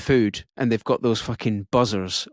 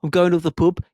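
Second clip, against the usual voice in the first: raised, lilting Black Country voice; Black Country accent; 4 semitones higher, 3 dB louder, faster than usual. Retold or imitated. Comic imitating yam yams talking, Black Country accent. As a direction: mimic Black Country pub chat. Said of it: "In the black country, you get sort of yam yams".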